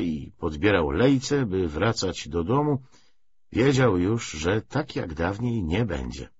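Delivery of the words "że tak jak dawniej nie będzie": usual speaking voice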